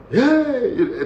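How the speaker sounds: high mock bark of hey; warders screaming. Prison warders yelling at new arrivals, high mock shout. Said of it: "they start screaming".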